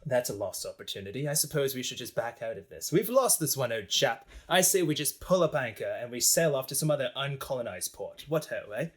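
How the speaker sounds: lightly put-on British gentleman accent; resigned mock-British understatement; British old chap. British onlookers give up on the canal, resigned mock British accent. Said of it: "the British are just like".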